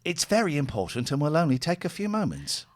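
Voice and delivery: robotic call-centre recording; automated phone voice. Acted. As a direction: read it like a recorded bank message. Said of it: "this is an automated one".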